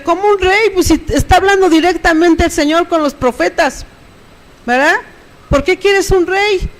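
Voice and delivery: high disbelieving question, slowing at the end; incredulous retort. Retold or imitated. Preacher voicing Samuel's disbelief at a demand for a king. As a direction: ask it as if the idea is absurd.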